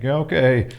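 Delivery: a high, loud "Yeah, okay" through laughter; mocking laughing okay. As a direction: laugh it off, brushing him aside. Mocking reply to pushy ensign.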